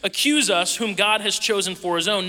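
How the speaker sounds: relished dramatic challenge. Shown as a demonstration. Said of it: "kinda fun to say that".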